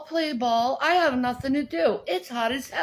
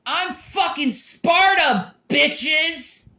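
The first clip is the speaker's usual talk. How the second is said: slow, higher and louder boast; mock war cry; 4 semitones higher, 4 dB louder, slower than usual. Playing the Spartan against three hundred, loud mock war cry. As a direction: bellow it like a Spartan.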